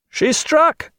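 very high sudden shout; excited cry. A narrator's reading. Sailor in the waist crying out, excited. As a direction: sailor spots the enemy strike. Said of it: "said a voice in the waist".

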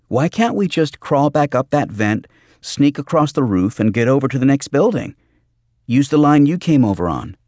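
high, loud, insistent pitch of an idea; agitated young Bobby. Acted. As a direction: push the suggestion out high and urgent.

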